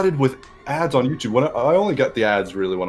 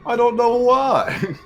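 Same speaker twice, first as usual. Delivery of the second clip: laughing; 11 semitones higher than usual. Real, not acted. Laughing at own rant.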